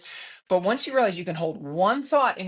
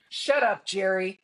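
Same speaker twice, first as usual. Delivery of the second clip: mild mock yell; slower than usual. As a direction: imitate yelling down to someone, lightly. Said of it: "I will yell down".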